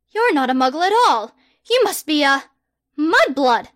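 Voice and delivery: loud, grand, self-important; pompous boy wizard. Acted. Harry the Great loftily turning down a survey, loud and pompous. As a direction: proclaim yourself like a hero.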